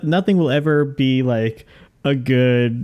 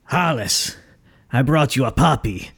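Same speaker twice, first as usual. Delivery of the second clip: mock sweet villain. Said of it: "could you ever see him being like".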